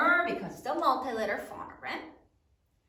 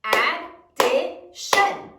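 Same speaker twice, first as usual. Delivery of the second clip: "Addition" in slow, loud, separate syllables; broken into syllables; 8 dB louder, much slower than usual. Shown as a demonstration. Teacher counts syllables for the class, "Addition" slowly broken up. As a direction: split "Addition" into three punched beats. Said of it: "How many syllables are there".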